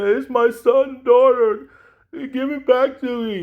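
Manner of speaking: high, slow proud pleading; father demanding his baby back, high and doting; doting Cyrax. Retold or imitated. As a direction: claim the creature as your own. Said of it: "and say".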